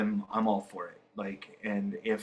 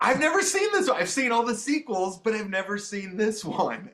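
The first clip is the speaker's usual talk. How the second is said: surprised; 9 semitones higher, 3 dB louder than usual. Retold or imitated. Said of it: "and I was like".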